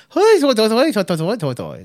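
high, loud mock Irish hoi hoi falling away at the end; old failed Irish accent attempt, hammed-up; bad Irish accent. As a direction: ham up a terrible leprechaun Irish. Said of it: "my old accent attempt".

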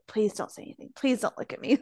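imitating a silent plea, softly; imagined inner plea. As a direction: plead under your breath, as if only thinking it. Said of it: "like, to himself, like".

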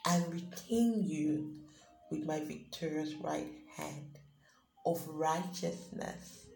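slow, solemn reading of God's promise; scripture reading. Acted. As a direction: read it as a comforting prophetic word. Paraphrased scripture read as God's voice.

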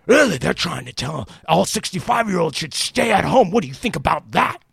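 put-on excited old client. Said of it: "he's like, all excited".

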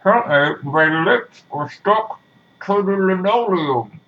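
lightly voiced girl stuck by her lips, slow pleading; mock stuck girl. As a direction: pretend cry for help, drawn out. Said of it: "like a suction cup".

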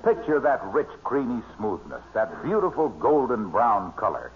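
smooth radio ad pitch; glowing commercial read for the pie. Acted. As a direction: sell the pumpkin pie like an announcer. Guest slips into a pie commercial.

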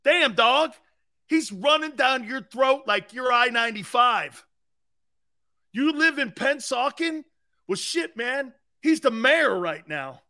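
on-field ribbing. Acted. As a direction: needle him for getting run over. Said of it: "that's how we talked".

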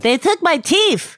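gummy, lisping speech with no teeth; toothless mumble. Acted. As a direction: talk like your teeth were just pulled. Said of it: "Why are you talking like that?".

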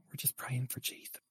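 hushed whisper; soft, airless whisper. Pretend. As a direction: whisper it softly into the mic. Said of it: "This is the Whisper Cast".

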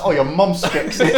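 lightly voiced rude boy insult; rude boy cuss. Joking with friends about slang, mock rude boy cuss. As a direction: toss out a slow street taunt through laughter. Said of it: "sound like a rude boy cuss".

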